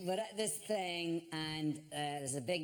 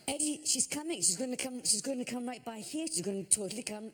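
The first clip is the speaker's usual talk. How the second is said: a higher, breathless, urgent rush of excitement; excited hiss; 6 semitones higher than usual. Retold or imitated. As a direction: tip off a friend in a thrilled rush. Oprah approaching, telling Eddie.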